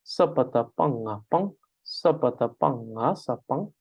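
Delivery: "sapang" with a clear a; eastern pronunciation. Shown as a demonstration. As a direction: spell it out the eastern way. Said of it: "in the more eastern part".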